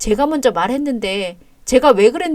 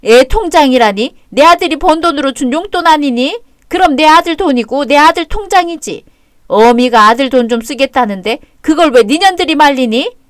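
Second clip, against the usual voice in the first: angry scolding; 3 semitones higher, 6 dB louder than usual. Acted. Mother-in-law scolding daughter-in-law.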